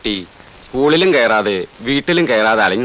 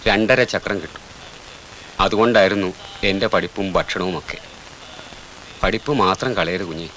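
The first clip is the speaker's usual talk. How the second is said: tender confiding; 2 semitones lower, 5 dB quieter than usual. Acted. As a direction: confide softly, then counsel kindly. Elder consoles child with own past.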